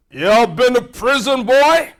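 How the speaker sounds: a hint of the ex-con answering the boss; voiced job seeker. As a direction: blurt the confession.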